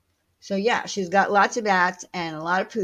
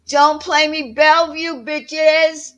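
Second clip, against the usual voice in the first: sassy quote; 9 semitones higher, 6 dB louder, slower than usual. Retold or imitated. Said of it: "one of the best lines".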